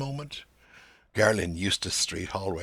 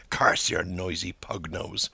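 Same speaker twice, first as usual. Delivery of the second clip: silent curse; 2 semitones lower, slower than usual. Acted. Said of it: "Mister Bloom thinks".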